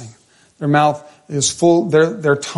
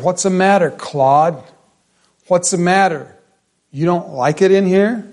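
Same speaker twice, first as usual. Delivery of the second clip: raised, jeering needle at a coworker; mocking taunt; 5 semitones higher, 3 dB louder than usual. Coworker taunting the dad for leaving the lunchroom, jeering. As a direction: goad him with a higher, louder sneer.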